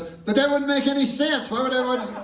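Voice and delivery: a talking dog, a touch indignant. Acted.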